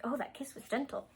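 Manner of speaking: soft whisper, dreamy inner thought. Acted. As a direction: breathe it out as a secret thought. Bride's private thought about kiss.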